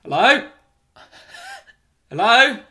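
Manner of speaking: hopeful call for anyone there. Retold or imitated. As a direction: call into an empty house. Acting calling out for help.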